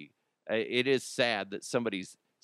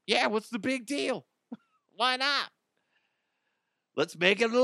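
mock hick supporter; 9 semitones higher than usual. Mocking a Kentucky supporter.

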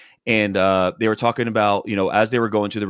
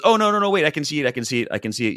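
excited; 6 semitones higher, much faster than usual. Retold or imitated. Wife blurts a joke about redskin.

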